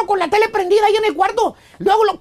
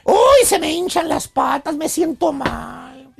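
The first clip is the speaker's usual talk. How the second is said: slow, dragged-out complaining; 3 semitones lower, slower than usual. Retold or imitated. Man listing his aches, slow mock complaining. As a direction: moan through each ache one by one, slowly. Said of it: "quejándose de que le duele la cabeza".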